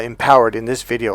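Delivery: ordinary talk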